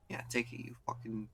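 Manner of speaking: a lightly voiced bratty kid, sneering; Kuno taunting. Kuno daring the detective to shoot himself, lightly mocking.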